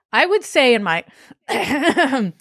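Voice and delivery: slips into an Australian accent reading the quote; Australian accent creeping in unbidden; accidental Australian. Real, not acted. Reading a police quote, slipping into Australian accent. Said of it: "oh, that's Australian".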